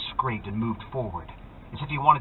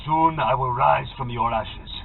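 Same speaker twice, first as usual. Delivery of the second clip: slow, savoring menace; gloating villain. A narrator's reading. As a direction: relish every word.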